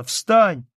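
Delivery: put-on high, loud, alarmed little girl; child's urgent shouting; crying out. A narrator's reading. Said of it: "закричала она".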